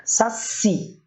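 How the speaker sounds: "saci" with a strong final CI; careful end-stressed "saci"; stress on last syllable. Shown as a demonstration. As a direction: split "saci" as sa-CI, leaning on the end. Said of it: "por última a sílaba tônica".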